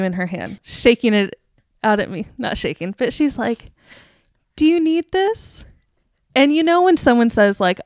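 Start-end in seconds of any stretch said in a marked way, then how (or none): 4.6-5.6 higher, drawn-out gentle question; gentle offer. Retold or imitated. Ticket booth angel offering a tissue, gentle concern. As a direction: offer it gently, slowly rising at the end.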